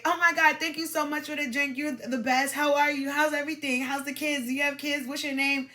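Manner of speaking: mock over-eager gush, starting high; desperate gushing. Coach mimics thanking the man for a first drink, desperately gushing. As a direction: pile up thanks and questions like someone desperate to please. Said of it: "that's desperate".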